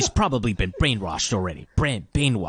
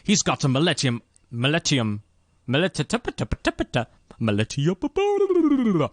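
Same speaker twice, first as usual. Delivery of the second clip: dramatic rising repeat; 4 semitones higher than usual. Pretend.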